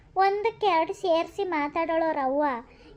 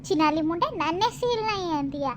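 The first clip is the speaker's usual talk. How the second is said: angry retort. Acted. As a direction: spit the curses back at her. Village women quarrel, insult traded.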